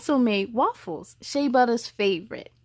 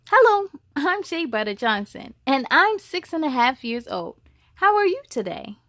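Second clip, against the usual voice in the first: lightly voiced little girl; 3 semitones higher than usual. Child introduces herself.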